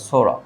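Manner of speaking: সোরা said as "sora" with no p sound; silent p. Shown as a demonstration. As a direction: start সোরা straight on the s. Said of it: "এখানে পি এর উচ্চারণ হবে না".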